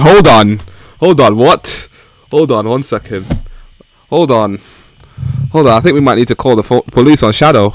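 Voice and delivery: loud startled disbelief; shocked. Real, not acted. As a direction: cut in alarmed and loud. Shocked reaction to the line.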